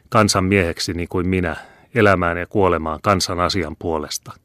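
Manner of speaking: a hint of a proud old man mocking noble ways; scornful old father. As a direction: build the scorn through the list. Old man's scornful speech.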